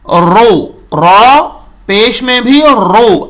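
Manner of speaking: teacher repeating رو with a full rounded o; model syllable ro. Shown as a demonstration. Teacher shows students the peshed ra, pronunciation demo. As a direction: say رو heavy, lips rounded. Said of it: "اگر آپ نے رو کہا".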